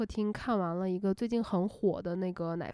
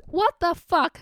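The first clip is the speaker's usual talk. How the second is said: a loud, high cry of disbelief; a stunned what the fuck, loud and high; stunned exclamation; 8 semitones higher, 7 dB louder, slower than usual. Real, not acted. Shocked retelling of a nightmare.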